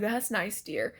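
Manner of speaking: mild, dismissive humoring; unfazed. Retold or imitated. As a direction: toss it off, barely interested. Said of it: "not even phased".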